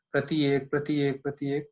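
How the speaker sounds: प्रति एक run together quickly, almost प्रत्येक. Shown as a demonstration. Teacher repeats the words fast to show sandhi, quick. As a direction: rattle off प्रति एक fast, again and again. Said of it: "इनको खूब जल्दी-जल्दी बोलें".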